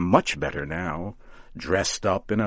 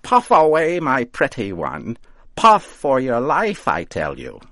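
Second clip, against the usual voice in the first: high, louder delighted coaxing; happy witch; 6 semitones higher, 7 dB louder than usual. A narrator's reading. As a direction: cheer him on with glee. Voices Mother Rigby.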